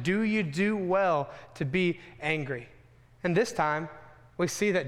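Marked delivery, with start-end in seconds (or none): 0.0-2.7 slow, weighty voice of God; a hint of a grave, patient God asking slowly; God's solemn question. Preacher voices God's question to sulking Jonah, slow and weighty. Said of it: "God once again asked the question".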